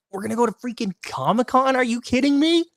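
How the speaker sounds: high-pitched excited disbelief. Real, not acted. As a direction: squeal it out in delight. Hyped about going to Comic-Con.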